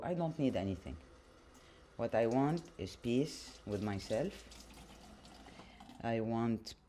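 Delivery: talking while washing dishes. Real, not acted. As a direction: speak over clattering dishes. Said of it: "I'm doing the dishes while I'm talking to you".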